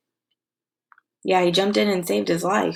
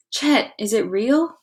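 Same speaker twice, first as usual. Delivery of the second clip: gasping; 4 semitones higher, slower than usual. Acted. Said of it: "Sid gasped".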